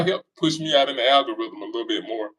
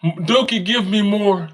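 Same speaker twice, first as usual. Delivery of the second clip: slow, drawn-out mocking fan plea; slow put-on begging voice, mocking; 4 semitones higher, 4 dB louder than usual. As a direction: ham up a devoted follower begging. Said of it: "y'all say".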